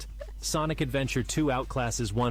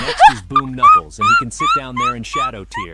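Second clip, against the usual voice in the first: laughing; 14 dB louder than usual. Acted. Announcing while laughing.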